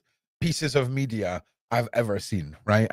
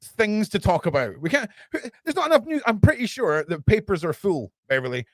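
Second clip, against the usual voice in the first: sarcastic cover-up voice; 3 semitones higher than usual. Acted. Sarcastic mock news denial.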